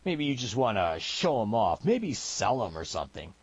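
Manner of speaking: lightly drawled frontier taunt; a touch of mocking challenge in a frontier voice; lightly voiced taunting gunman. Gunman taunting armed opponent, lightly voiced mockery.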